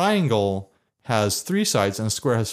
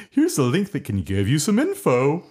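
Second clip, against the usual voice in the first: moon voice. Pretend. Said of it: "read it in the moon voice".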